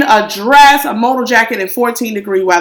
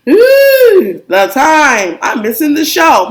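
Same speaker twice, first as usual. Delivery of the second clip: mock fussy date; 4 semitones higher, slower than usual. Mimicking date's fussy complaint.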